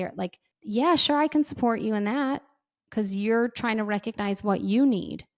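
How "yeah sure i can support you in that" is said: upbeat agreement. Retold or imitated. Supportive partner agreeing.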